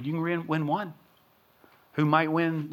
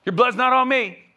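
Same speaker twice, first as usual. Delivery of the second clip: higher, hand-washing smugness; self-righteous mock; 8 semitones higher, 6 dB louder than usual. Pastor mocking a watchman who washes his hands, smug. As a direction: toss it off like it's not your problem. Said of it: "It's not like".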